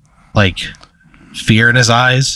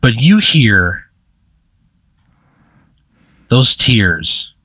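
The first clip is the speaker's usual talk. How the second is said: game master's scene setting. Acted. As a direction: let each phrase hang before the next.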